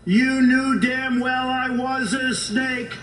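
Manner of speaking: measured storytelling recital of a poem. Acted. Speaker reciting the snake poem to the crowd, measured recital. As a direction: read it like a cautionary fable.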